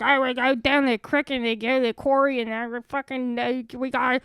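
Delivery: imitating actors doing Delco accents; mock Delco accent. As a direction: parody a Philadelphia-suburb accent. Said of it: "when my entire family talks like this".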